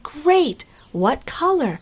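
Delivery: eager playful encouragement; excited clown. Retold or imitated. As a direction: pump up the child with a high call. Clown cheering the child on.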